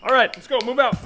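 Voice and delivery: high, loud command yell; shouted order. Acted. The general ordering her troops out, yelling. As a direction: bark the order to move out.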